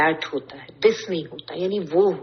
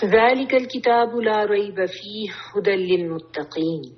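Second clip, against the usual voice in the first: Quran recitation; 3 semitones higher than usual. Acted. Teacher recites Quranic verse.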